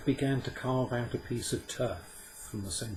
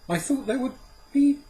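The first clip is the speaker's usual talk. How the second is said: disappointed; 9 dB louder than usual. A narrator's reading.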